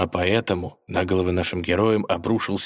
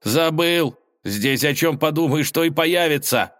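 exasperated; 8 semitones higher than usual. Acted. Ivan exasperated at the wolf.

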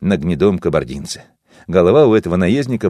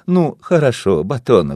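conciliatory; 4 semitones higher than usual. Acted. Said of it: "примирительно сказала жена Васо".

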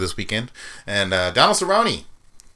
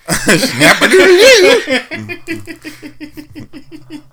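drawn-out laughing repeat, much higher; 9 dB louder, much slower than usual. Real, not acted. Repeating a friend's silly catchphrase, laughing. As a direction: stretch it out through a laugh.

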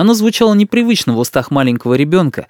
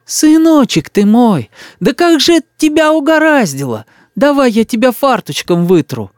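put-on fussing old woman; 11 semitones higher, 3 dB louder than usual. A narrator's reading. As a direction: coo over the boy like a village granny. Old woman fusses over boy. (старушка причитает над мальчиком)

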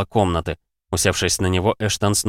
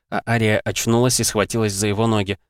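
ordinary delivery

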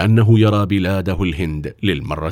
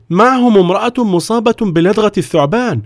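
guard reporting; 12 semitones higher, 5 dB louder than usual. Acted.

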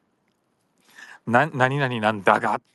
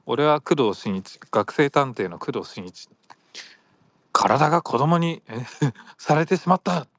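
lightly voiced dramatic anime intro; a hint of Conan narration; 2 semitones higher than usual. Quoting the Detective Conan opening, lightly dramatic. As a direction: recite the opening like the show. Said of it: "すごい始まり方っていうかさ".

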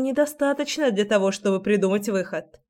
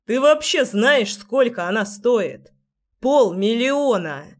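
outraged shout; 3 semitones higher, slower than usual. Acted. Shocked at broken vase.

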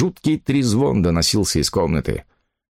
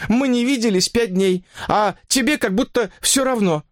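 much higher, plaintive woman's voice; unhappy woman; 13 semitones higher than usual. Acted. Mistress telling her lover she is unhappy, plaintive. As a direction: lament it, high and pleading.

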